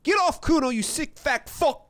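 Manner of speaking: put-on high, loud kid yell; squealed abuse; screaming boy. A narrator's reading. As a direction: shout the insult shrill, stretching the end. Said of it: "the boy screams".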